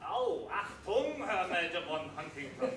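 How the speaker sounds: hastily resumed mock German accent; put-on German accent. Impostor reminded of his lost accent, put-on German accent. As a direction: slip back into a stagey German accent. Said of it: "lost your German accent there".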